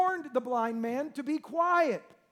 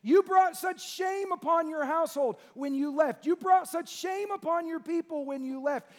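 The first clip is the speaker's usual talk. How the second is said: loud scornful family voice, louder on the first lines; shaming rejection; 3 semitones higher, 5 dB louder than usual. Retold or imitated. Family shouting at the returning son, scornful. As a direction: cast the son out loudly.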